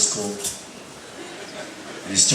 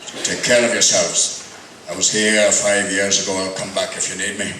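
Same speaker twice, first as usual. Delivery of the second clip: Sean Connery impression; 4 semitones lower than usual. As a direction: purr it lightly like Connery. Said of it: "Feeling like Sean Connery".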